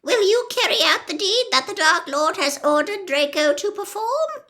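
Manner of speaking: high pleading woman's voice; urgent plea. Acted. Narcissa demands Snape's vow before Bellatrix, high and tense.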